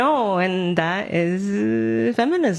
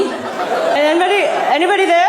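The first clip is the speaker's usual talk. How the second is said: calling out; 8 semitones higher, 7 dB louder than usual. Acted. Calling out to spirits in house.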